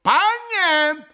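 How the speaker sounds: loud, very high threatening cry; крик с угрозою. A narrator's reading. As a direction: shout it as an indignant warning. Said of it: "прокричали оба пана с угрозою". (угрожающий возмущённый окрик)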